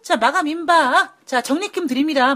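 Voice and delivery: home shopping host pitch; infomercial. Pretend. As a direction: hype it like a TV seller. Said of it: "마치 이런 쇼호스트처럼".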